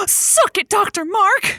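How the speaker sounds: high, excited victory jab; gleeful gasp and gloat. Acted. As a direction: gasp then crow at the rival. Host gloats over rival.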